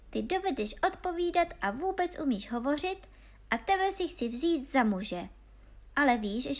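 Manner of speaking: playful princess. Acted. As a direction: tease him like an amused princess. Princess voiced in story. (hravá princezna vyšším hlasem)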